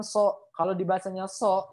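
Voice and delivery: "so" with a light S like sin; thin S. Shown as a demonstration. Teacher shows the wrong sod, thin light "so". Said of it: "itu nyasar ke huruf sin".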